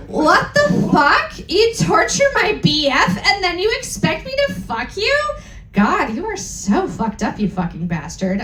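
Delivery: hammed-up angry scolding. Reader voicing the heroine telling off Snaketail, mock angry. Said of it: "I said angrily".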